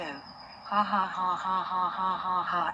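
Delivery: slow, loud gloating laugh. Acted. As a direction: laugh it up, triumphant. Gloating over the prank.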